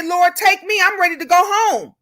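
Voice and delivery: high, sincere surrender; offering herself. Retold or imitated. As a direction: plead to be taken in place of the kids. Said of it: "I'm gonna say".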